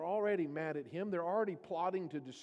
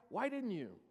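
accusing question; 2 semitones higher than usual. Retold or imitated. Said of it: "which implies".

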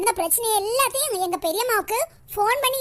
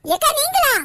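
high, louder startled question; surprised to find the neighbour there, startled; 7 semitones higher, 5 dB louder than usual. Acted. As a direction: caught off guard, pitch up.

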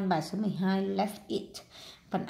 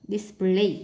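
"display" stressed on PLAY, the second syllable; 4 dB louder than usual. Shown as a demonstration. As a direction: land the beat of "display" on PLAY. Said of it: "nhấn âm hai".

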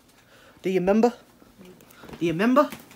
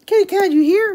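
high sing-song call to a pet; looking for the kitty, pitched up; high call for the cat; 9 semitones higher, 4 dB louder than usual. Real, not acted. Calling the cat.

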